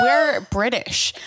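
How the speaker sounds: lightly put-on British accent; slow, pretend British accent. Fooling her own kids, pretend British accent. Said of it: "in a British accent".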